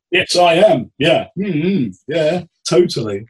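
a bloke lapping up the praise; flattered husband. Retold or imitated.

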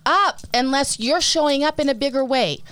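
incredulous stammer into high-pitched rebuke; harsh retort. Acted. Podcast host shutting down the naysayers, harsh and incredulous. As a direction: sputter in disbelief, then shut them down. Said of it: "I don't mean that to be harsh".

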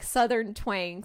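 slow, low Southern twang; Southern twang demo. Shown as a demonstration. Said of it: "Anything she says is like this".

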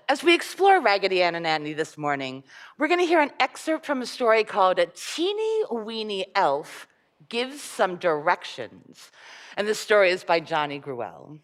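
put-on lively storybook reading for children; story reading. Reading a fairy tale aloud to children.

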